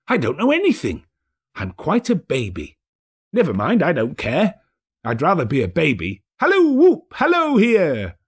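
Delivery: put-on old man happy to be a baby; childlike, overjoyed; giddy Scrooge.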